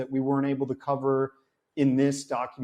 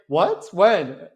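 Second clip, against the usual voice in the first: surprised what when; 3 semitones higher, 6 dB louder than usual. Retold or imitated. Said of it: "And he's like".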